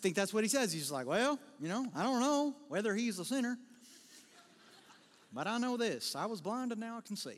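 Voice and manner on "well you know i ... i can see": put-on rural American country accent. Speaker imagines how a man in a bible passage says it: country accent. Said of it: "I just imagine this guy says this with a country accent".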